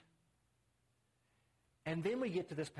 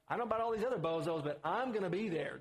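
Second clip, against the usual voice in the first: quick, mildly insistent paraphrase of Peter; emphatic boast; 3 dB louder than usual. Retold or imitated. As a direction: imitate Peter's confident promise. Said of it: "it's very emphatic".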